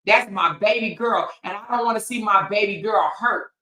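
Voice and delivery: mock apologetic dad. Mocking a rapper apologizing to his daughter, pleading voice. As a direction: ham up a father's plea. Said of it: "a rapper said".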